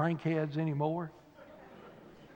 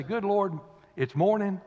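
grumpy groan. Retold or imitated. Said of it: "They either say".

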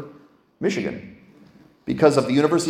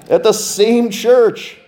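very slow, high and loud through a laugh; real laughter at the twist; laughing punchline; 10 semitones higher, 6 dB louder, much slower than usual. Real, not acted. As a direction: land the irony with a laugh. Punchline of ironic return.

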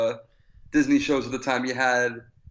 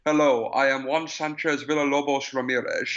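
lightly put-on thick Scottish accent; mock Scottish accent introduction; Sean Connery's Scottish. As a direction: imitate a Scotsman badly playing a Spaniard. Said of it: "very thick Scottish accent, he says".

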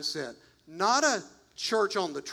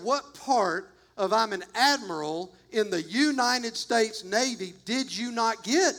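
mock exasperation, pitched a little higher; really ticked admiral; 3 semitones higher than usual. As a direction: lightly act out an officer losing patience. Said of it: "now he's really ticked".

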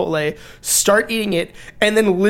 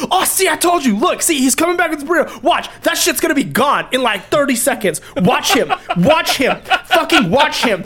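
higher, giddy voice of a coworker egging others on; excited coworker; 6 semitones higher than usual. Retold or imitated. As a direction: point and gloat to the others. Coworker hyping him eating burrito.

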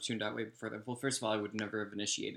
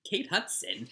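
high, incredulous echo; disbelieving echo; 9 semitones higher, much slower than usual. Real, not acted. Friend hearing the lookalike name, high incredulous echo.

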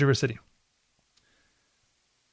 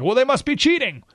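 mock baffled loser; 8 semitones higher than usual. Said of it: "scratching their head like".

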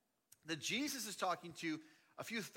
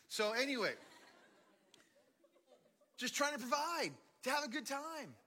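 laughing; 9 semitones higher, 4 dB louder than usual. Real, not acted. Laughing at own joke.

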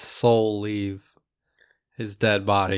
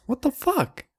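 outraged shriek; 14 semitones higher than usual. Acted. Mom offended, acted.

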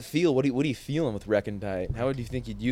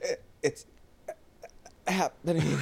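creepy whisper; 2 semitones higher, 5 dB quieter than usual. Pretend.

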